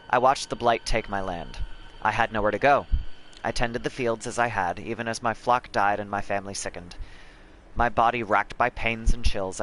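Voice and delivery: measured dramatic reading; story narration. Acted. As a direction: read it like a tale. Reads game codex aloud.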